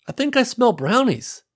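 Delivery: high, dreamy voice; dreamy sniffing. Acted. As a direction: lift it like a happy daydream. Sam sniffs the air.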